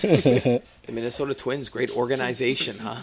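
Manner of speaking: a hint of a Minnesota accent, cheery; lightly voiced Minnesota booster; Minnesotan accent. Praising the Twins as a mock Minnesotan, light accent. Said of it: "when I think Minnesotan accent".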